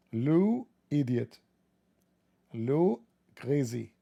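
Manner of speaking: drawn-out fake French accent; slow, exaggerated mock-French example. Shown as a demonstration. Showing how any word becomes French, mock French accent. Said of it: "it will become French".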